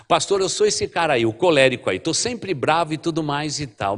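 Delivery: mock confession. Church member confessing choleric temper.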